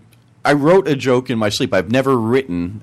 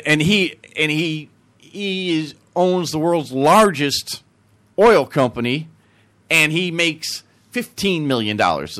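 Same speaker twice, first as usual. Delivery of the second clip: slow, higher Texan brag; Texan accent; 4 semitones higher, slower than usual. Acted. Texan bragging about his son's money, Texan accent. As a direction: stretch it out as a boasting Texan. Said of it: "And the Texan goes".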